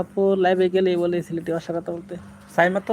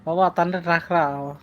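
Sylheti dialect. Shown as a demonstration. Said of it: "এটা হলো সিলেটি ভাষা".

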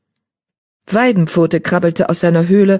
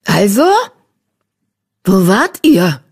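put-on louder, demanding old she-cat; growled; 4 semitones higher, 5 dB louder than usual. A narrator's reading. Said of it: "knurrte eine unverwechselbare Stimme". (knurrend, fordernd)

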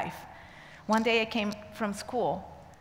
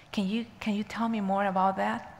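hushed, halting plea with a whispery edge; almost crying; 3 dB quieter than usual. Retold or imitated. Prisoner asking the teacher for more, almost crying softly. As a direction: lightly imitate someone near tears. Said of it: "she was almost crying".

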